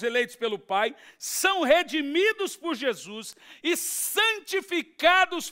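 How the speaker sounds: high, loud pulpit delivery; forceful preaching. Real, not acted. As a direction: drive the doctrine home, raising voice and pitch.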